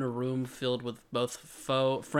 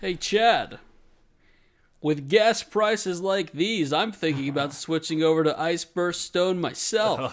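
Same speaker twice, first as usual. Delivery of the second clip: sitcom neighbor voice; 3 semitones higher, 4 dB louder than usual. Acted. Mock ad neighbor chat.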